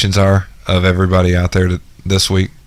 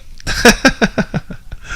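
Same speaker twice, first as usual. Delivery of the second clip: making fart noises; 4 dB quieter than usual. Shown as a demonstration. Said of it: "I make fart noises with my mouth".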